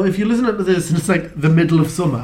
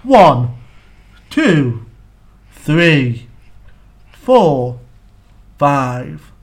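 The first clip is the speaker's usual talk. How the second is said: different tones; 4 semitones lower, 3 dB louder, much slower than usual. Shown as a demonstration. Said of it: "do them at different tones as well".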